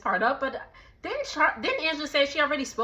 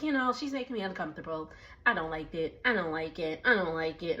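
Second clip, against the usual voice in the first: softer, lower mock complaint; mock whiny Shamia; 6 semitones lower, 8 dB quieter than usual. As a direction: imitate her whining quietly.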